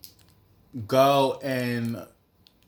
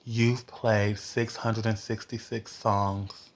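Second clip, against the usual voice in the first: Pandora voice; 2 semitones lower, 4 dB quieter, slower than usual. Retold or imitated. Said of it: "Pandora was like".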